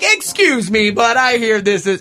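big announcement. Retold or imitated. Host grabbing the DJ's microphone, big announcer voice. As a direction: cut in like an announcer on the mic. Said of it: "did this big ol' announcement thing".

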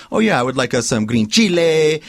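mock order with a hammered Spanish CHILE; English order, then CHILE dragged out in Spanish; switch into Spanish accent. Mocking newscasters who switch accents mid-sentence, Spanish accent on CHILE. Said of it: "you should have rolled all your R's".

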